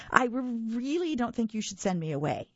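warning. Acted. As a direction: warn him darkly. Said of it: "he warned".

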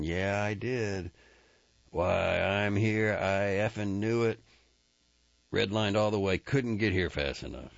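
lightly voiced eager rodeo man; Jack, exhilarated. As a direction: gush it out, half laughing. Jack talks after sex.

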